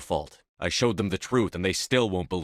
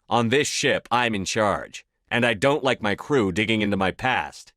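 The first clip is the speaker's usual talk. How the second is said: stern command; 3 semitones higher, 5 dB louder than usual. Acted. Captain asserting command over crew.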